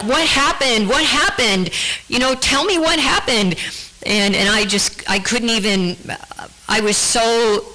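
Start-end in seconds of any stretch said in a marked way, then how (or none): 0.0-3.5 urgent pleading. Retold or imitated. Brother grabbing her, demanding answers.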